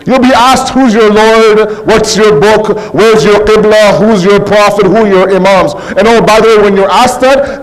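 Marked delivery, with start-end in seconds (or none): 0.7-5.7 insistent, evenly stressed questioning; interrogation. Acted. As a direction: fire each question at a held, raised pitch. Angels' questioning in the grave.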